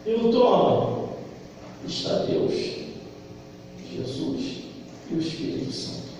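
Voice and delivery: soft, unvoiced awe; awed hush. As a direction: drop to a reverent whisper. Awed hush describing the throne.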